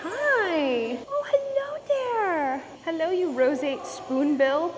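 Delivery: high, slow cooing at a pet; animal-greeting voice. Real, not acted. Vlogger greeting a roseate spoonbill, high animal-greeting voice. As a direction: coo it high and drawn out to the bird. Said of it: "I apologize for my animal voice".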